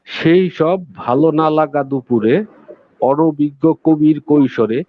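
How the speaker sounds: slow, measured poetry reading; poem recitation. Acted. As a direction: read it slowly like a poem. Poet reads own poem.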